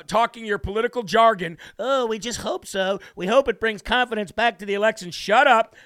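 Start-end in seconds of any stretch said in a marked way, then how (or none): 1.8-5.1 mock politician. Mocking politician's hedging. 5.1-5.8 loud, irritated shut up; sick of the hedging, a loud shut up; angry snap. Real, not acted. Angry retort to the mocked words.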